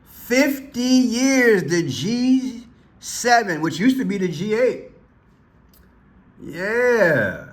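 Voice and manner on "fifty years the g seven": slow, drawn-out mock announcement; mock solemn. Host mocking the prime minister's anniversary speech, slow and grand. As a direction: draw out the years like a grand toast.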